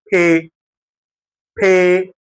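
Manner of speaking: "بي" as French P, lips tucked in then released; P with air. Shown as a demonstration. Teacher drilling lips bitten inward, puffed pé. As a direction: say "بي" as pé with a puff of air. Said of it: "عض شفايفك لجوه".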